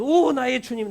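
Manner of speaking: high, loud cry of worship; overwhelmed outcry to the Lord; awed confession. Acted. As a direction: fall to your knees and cry it out. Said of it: "그냥 덜썩 탁 누르면서".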